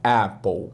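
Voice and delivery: Apple with open E, like EH-pol; English apple. Shown as a demonstration. Teacher modelling Apple for Brazilian learners, slow and clear. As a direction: say Apple as EH-pol, not A-pple. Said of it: "mas fala apple".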